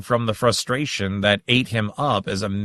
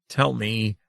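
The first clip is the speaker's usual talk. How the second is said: pleading. Acted. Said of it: "he pleaded in agony".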